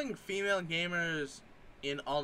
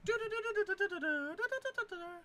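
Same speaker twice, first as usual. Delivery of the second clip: imitating piano; 4 dB quieter than usual. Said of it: "make the sound of a piano".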